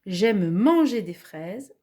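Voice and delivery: example sentence. Shown as a demonstration. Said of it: "Une phrase où c'est l'infinitif".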